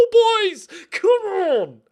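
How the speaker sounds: high, loud cry of come on; excited urging. Real, not acted. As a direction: yell the team forward, thrilled. Urging players near goal.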